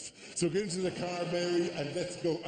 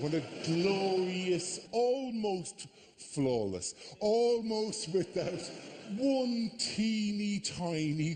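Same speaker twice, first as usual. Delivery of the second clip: mock grandeur; slower than usual. Mock-grand build-up to fireworks disaster.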